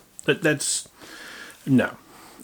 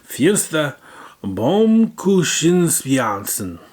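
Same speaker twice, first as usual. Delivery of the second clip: high, loud mock German; mock German accent; 5 semitones higher, 5 dB louder, much slower than usual. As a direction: repeat it like a German announcer. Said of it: "what I can only describe as".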